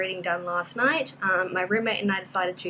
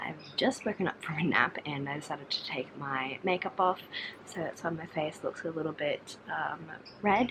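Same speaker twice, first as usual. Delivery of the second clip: careful, hushed, low, quiet talking; 4 semitones lower, 8 dB quieter than usual. Recording an update while a roommate sleeps nearby, talking quietly. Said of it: "I'm talking quietly because my roommate is asleep".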